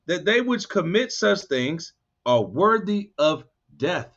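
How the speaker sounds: slow, deliberate reading of That they which commit; slowed down so the point lands; slow emphatic read. Shown as a demonstration. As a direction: draw out every word of the verse. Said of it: "Now watch this right here".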